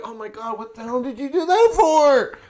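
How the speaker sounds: high, loud, indignant squeal; hammed-up shocked outrage; mock outraged shriek. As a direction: shriek like you just got slapped in the face. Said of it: "You're like".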